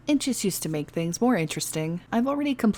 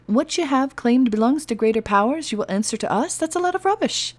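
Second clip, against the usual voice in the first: scoffing; 6 semitones higher than usual. Acted. Elf scoffing at letter.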